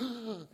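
sharp acted gasp; mock horrified intake of breath; shocked gasp. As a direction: gasp as if everyone reacts at once. Acting out shock at the nest.

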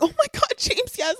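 very high gushing imitation; mock fawning. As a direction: gush over him in a high mock squeal. Imitates her fawning over James.

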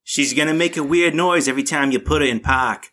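lightly put-on Boston mechanic accent; mock Boston accent. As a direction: play a Boston car mechanic, half in jest. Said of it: "nice use of park in the Boston accent".

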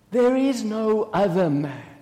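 measured denial. Acted. Mary assuring her sister of her innocence, measured denial. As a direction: state it evenly and firmly.

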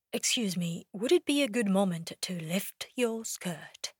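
soft, hesitant asking; timid James. Retold or imitated. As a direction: ask it like a nervous gentleman. James asking permission again.

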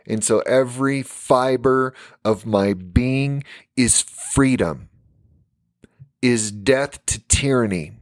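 slow, weighty oratory with pauses; deliberate, spaced-out rallying speech; preacher's declaration. Real, not acted. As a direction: declare it phrase by phrase like a solemn creed.

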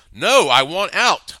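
loud, high, slow desperate cry; exclaimed. Acted. Terrified hostage demands to be let out, loud and high. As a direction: shout each word out in panic. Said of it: "I exclaimed".

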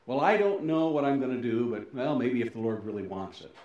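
mildly mock-hesitant; doubtful, faithless. Preacher imitating someone with little faith, mild doubt. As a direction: act out a half-hearted maybe, trailing down. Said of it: "Does that sound like a lot of faith".

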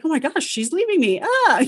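mock wailing toddler, high; upset toddler. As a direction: play the abandoned kid, hammed-up. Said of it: "And he's like".

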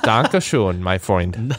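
put-on German accent. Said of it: "you, you, you would say".

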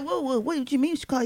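quick, soft, puzzled mock voice; baffled driver, lightly voiced; confused driver. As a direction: rush it out in amused confusion. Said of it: "Then the driver's like".

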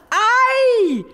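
aïe perçant et exagéré; cri aigu de douleur. Acted. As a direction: crier de douleur, très aigu. Tonito falls on a cactus. (petit cri de douleur théâtral)

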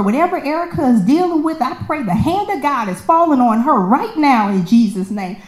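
high, fervent prayer voice; lightly voiced fervent prayer; praying lady. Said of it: "she was going in".

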